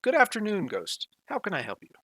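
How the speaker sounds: a lightly done British butler voice; British accent. Acted. GM voicing Socrates to Ghost in a light British accent. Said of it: "I'm terrible at it".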